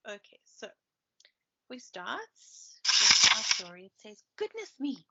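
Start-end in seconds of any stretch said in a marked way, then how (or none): 4.4-5.0 snorted. A narrator's reading. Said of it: "snorted Hatty the Hedgehog".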